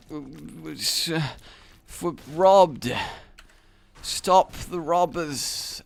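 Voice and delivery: half-asleep, tripping over words; too tired to get words out; delirious sleepy stammer. Retold or imitated. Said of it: "so delirious with tiredness that I can't even properly word".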